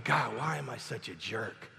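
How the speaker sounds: mope it to yourself like a sulking husband; pity party. Retold or imitated. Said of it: "I was having a pity party".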